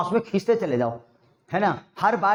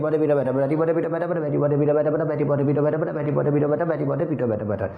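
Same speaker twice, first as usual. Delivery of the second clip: rapid repetition; 2 semitones lower than usual. Shown as a demonstration. Teacher shows the one-breath drill, rapid run. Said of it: "इसका double भी कर सकते हैं".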